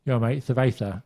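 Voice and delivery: lazy English tourist voice. Retold or imitated. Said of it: "people going".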